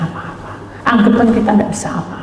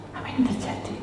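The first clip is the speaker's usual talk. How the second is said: hushed, breathy question to God; whispered prayer; 13 dB quieter than usual. Retold or imitated. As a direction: whisper it in fear. (bisikan takut)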